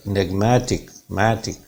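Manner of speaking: "enigmatic" with the stress on MAT. Shown as a demonstration. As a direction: lean on "matic" in "enigmatic". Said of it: "मा sound पे stress आएगा". ("enigmatic" में "मा" पर ज़ोर)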